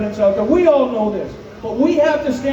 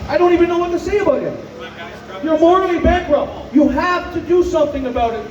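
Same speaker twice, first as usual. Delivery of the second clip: shouting; 3 semitones higher than usual. Real, not acted. Rallying call continues.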